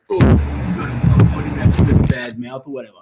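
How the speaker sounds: slow mock complaint in a put-on voice; mocking imitation. Imitating easily offended viewers of the channel, slow mocking.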